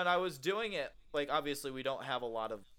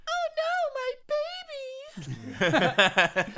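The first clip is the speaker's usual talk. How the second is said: high woman's voice; 9 dB louder, much faster than usual. Retold or imitated. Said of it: "trying to get my voice as high as possible".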